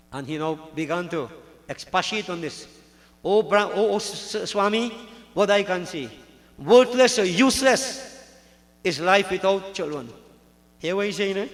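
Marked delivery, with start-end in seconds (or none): 3.2-10.1 loud, raised-pitch plea, stumbling at first; emphatic lament. Acted. Childless Brahman pleads with the Swami, emphatic lament. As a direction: lament loudly, leaning on the key words.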